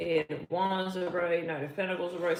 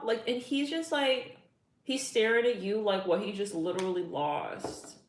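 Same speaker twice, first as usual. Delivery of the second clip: usual speaking voice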